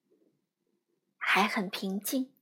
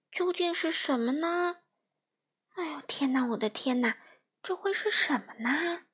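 high, wondering little fish voice; puzzled little fish; 3 semitones higher than usual. Acted. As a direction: talk to yourself, baffled and small.

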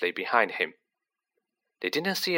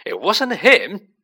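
higher, much louder, slow roar; 9 semitones higher, 7 dB louder, slower than usual. A narrator's reading. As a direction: roar it in desperate defence. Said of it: "roared the boy".

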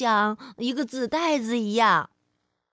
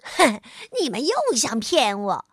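scoffing; 2 semitones lower than usual. Acted. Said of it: "变色龙笑了".

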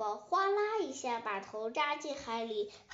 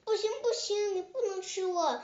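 put-on high-pitched baby dinosaur protest; acted shriek; 8 semitones higher than usual. A narrator's reading. Baby dinosaur begs the tyrannosaur not to eat it, high shriek. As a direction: squeal in panic, voice jumping up high. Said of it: "吉龙宝宝尖叫着".

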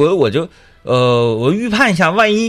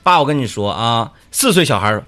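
child imitating dad. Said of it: "怎么学谁说话啊".

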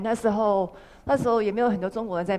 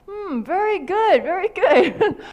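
slow, drawn-out, higher and louder praise; mock approving voice; 9 semitones higher, 6 dB louder, much slower than usual. Praising the shop's success in a slow, put-on approving voice. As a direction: stretch out each very good like a proud elder.

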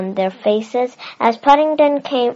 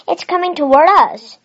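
much higher and louder alarmed shout; shouted warning; 7 semitones higher, 7 dB louder, faster than usual. A narrator's reading. Mr Brown warning the family of the runaway camera, shouting. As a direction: yell it to get everyone out of the way. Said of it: "shouted Mister Brown".

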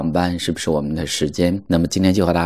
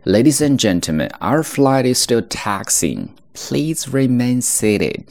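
airport announcement; 6 semitones higher, slower than usual. Shown as a demonstration. Crew announcement quoted in lesson.

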